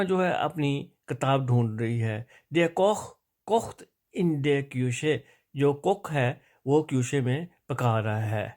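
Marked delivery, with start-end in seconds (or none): 2.5-5.2 deliberate German model reading; reading practice sentence. Shown as a demonstration. Teacher reads the exercise before translating, slow and deliberate. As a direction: read it slowly, word by word. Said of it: "وہ میں آپ کو پڑھ دیتا ہوں".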